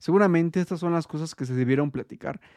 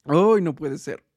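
sudden pained exclamation, burned by tea; sorbiendo té caliente; 4 dB louder, slower than usual. Real, not acted. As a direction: yelp after a scalding sip. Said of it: "Está muy caliente el té". (exclamación de dolor al quemarse con el té)

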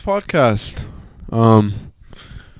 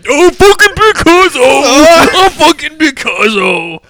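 Victor Ronaldo; 12 semitones higher, 9 dB louder, much slower than usual. Acted. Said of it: "This is how Victor Ronaldo speaks".

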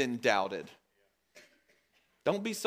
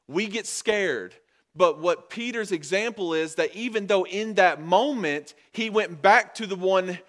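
raised, higher pulpit voice; impassioned preaching; 4 semitones higher, 5 dB louder than usual. Real, not acted. Preacher urging the fallen to repent, impassioned exhortation. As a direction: drive it home to the congregation.

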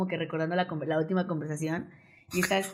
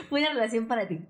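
laughing; 7 semitones higher, faster than usual. Real, not acted. Teasing the host about a relationship.

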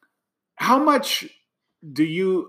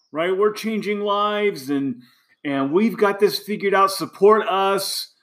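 pitched up, swaggering leader boasting; mock bold declaration; 5 semitones higher than usual. Coach mocking the old overconfident leader voice to donors, higher and boastful. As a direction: sell it like a cocky leader who has it all figured out. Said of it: "It was declaration".

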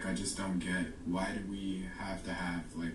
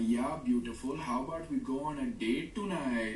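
put-on high, lilting comic South Asian accent; funny brown accent; 5 semitones higher than usual. Asking someone on a date, comically thick brown accent. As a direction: exaggerate a goofy South Asian accent, pitch raised. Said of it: "I did it with a funny accent".

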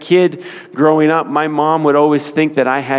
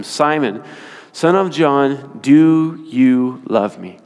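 slow, drawn-out third asking; slow pleading question; slower than usual. Retold or imitated. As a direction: stretch each word as if asking for the last time. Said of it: "A third time".

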